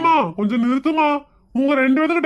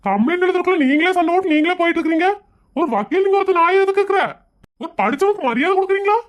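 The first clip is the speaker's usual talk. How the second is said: angry; 4 semitones higher than usual. Acted. Lawyer scolding the quarrelling couple.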